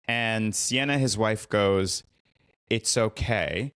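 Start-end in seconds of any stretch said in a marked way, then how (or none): 2.7-3.7 slow "okay" lifting at the end; reassure, leaving it slightly open; retold quick forgiveness. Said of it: "Then she stops herself".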